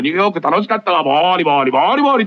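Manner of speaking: lightly voiced woman chatting while scratching, scratch sounds rising; a hint of a pretty woman scratching; mock woman scratching. Imagined friend at Narita, lightly mock scratching voice. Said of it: "お股をボリボリかきながら".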